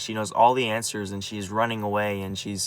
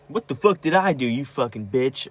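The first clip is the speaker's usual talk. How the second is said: higher, louder mock scream of an insult; retold screaming; 3 semitones higher, 3 dB louder than usual. Retelling grandpa and mom fighting, mock screaming. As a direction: re-enact the screaming match, not full force. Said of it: "with screaming".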